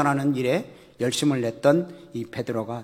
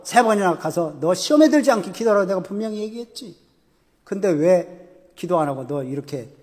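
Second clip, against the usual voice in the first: louder, scornful rebuke that sinks to a sneer; pretend scolding; 3 semitones higher, 4 dB louder than usual. Jesus imagined glaring at Peter, mock angry scolding. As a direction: scold him like a disappointed master, then mutter. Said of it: "기분 나빠서 째려보셨을까요?".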